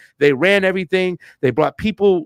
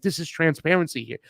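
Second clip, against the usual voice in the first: softer, awed and sincere; moved, quiet awe; 3 semitones higher than usual. Retold or imitated. Host reliving the Honduras count, quiet and moved. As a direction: recall being moved to tears, softly. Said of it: "I'm like".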